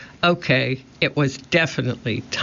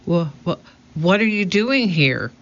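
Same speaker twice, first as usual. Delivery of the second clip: high, stuttering astonishment; a boy too stunned to speak straight; stammering surprise; 3 semitones higher than usual. A narrator's reading. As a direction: stumble over the words, amazed. Jack stunned by the parrot.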